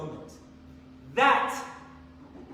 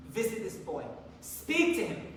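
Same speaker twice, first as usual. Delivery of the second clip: whispered plea; 6 dB quieter than usual. Retold or imitated. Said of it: "Please help me".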